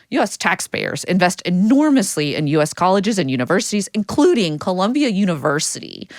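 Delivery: lightly nerdy reading voice; nerd voice. Acted. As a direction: read it like a prim little nerd. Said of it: "your nerd voice".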